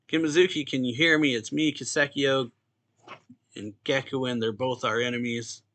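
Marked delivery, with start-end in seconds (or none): 0.1-2.5 retold yell. Manga character calls out to Kimazuki, mildly raised retold yell. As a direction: call out urgently without really shouting. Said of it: "And then Yu yells".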